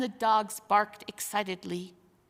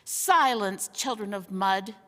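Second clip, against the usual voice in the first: thundering command; 4 dB louder than usual. Acted. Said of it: "thundered Rishta Tarkan".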